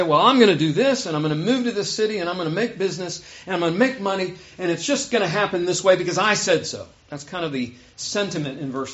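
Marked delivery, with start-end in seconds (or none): 0.0-6.9 mildly cocky list of big plans; boastful, arrogant. Acted. Preacher voicing the planner James warns against, mildly boastful. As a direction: rattle off plans with a touch of swagger. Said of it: "don't be so boastful and arrogant".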